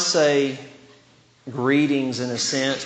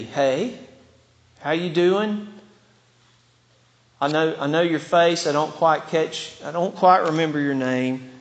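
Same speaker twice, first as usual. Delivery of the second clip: lukewarm greeting. Acted. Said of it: "It wouldn't be".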